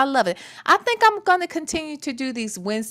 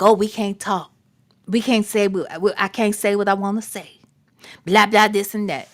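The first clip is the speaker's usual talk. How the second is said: mocking the boyfriend; 5 semitones lower than usual. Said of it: "for him to act like".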